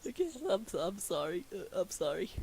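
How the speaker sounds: real giggly apology; laughing apology. Real, not acted. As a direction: apologize while recovering from giggles. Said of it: "why I'm laughing".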